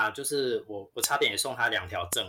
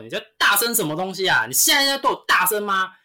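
louder, higher mock tirade; imitated angry scolding; 7 semitones higher, 6 dB louder than usual. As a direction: fire it off like an angry shopper. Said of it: "他直接就飙骂我". (模仿顾客飙骂、提高音调)

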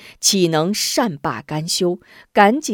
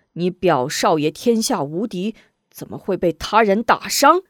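loud angry scolding, building; enraged master shouting; furious father; 5 dB louder than usual. Acted. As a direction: roar at the servant girl. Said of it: "勃然大怒".

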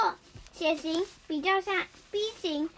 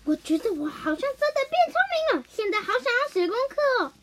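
兴奋的小孩; 6 semitones higher than usual. Acted. 绿豆冰吃了药丸.

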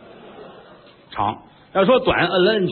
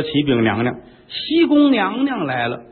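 eunuch's announcement. Acted. 太监禀报，学太监声.

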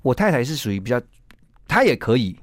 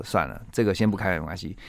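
calm self-talk; 5 semitones lower, 6 dB quieter than usual. Retold or imitated. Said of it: "回到理性思考".

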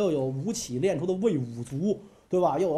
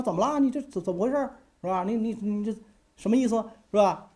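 alarmed question, pitched high; a king caught off guard demanding answers; king startled by minister's plea: high alarmed questions; 5 semitones higher than usual. Acted. King startled by Pang Juan's confession.

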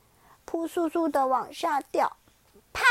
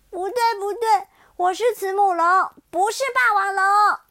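put-on loud, high, furious child; furious shout; 8 semitones higher, 9 dB louder than usual. Xiaoliang shouting he is a Maiasaura, furious. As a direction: scream the denial. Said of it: "小梁发怒了".

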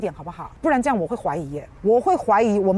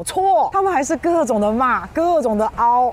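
emphatic scolding; 4 semitones higher, 4 dB louder than usual. Real, not acted. Scolding the critics' endless attacks.

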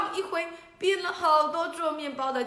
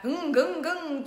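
motorbike engine rumble; 6 semitones higher, 6 dB louder, slower than usual. Acted. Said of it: "重型机车的声音".

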